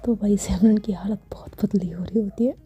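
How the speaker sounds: hushed, intimate storytelling whisper; whispered story narration. A narrator's reading. (धीमी फुसफुसाती कथा-वाचन)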